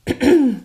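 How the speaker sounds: clearing a hoarse throat; rough throat clear. Real, not acted. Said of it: "meine Stimme versagt".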